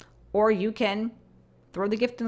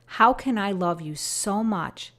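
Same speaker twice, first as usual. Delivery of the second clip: slow, grieving appeal fading away; pleading voice of God; slower than usual. Acted. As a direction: speak as a Father calling back a straying child. Voices God's lament.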